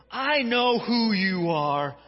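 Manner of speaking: a hint of the possessed man, slow; slow, lightly voiced demon; mild demon voice. Possessed man naming Jesus, lightly voiced. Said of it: "continuing the possessed man's words".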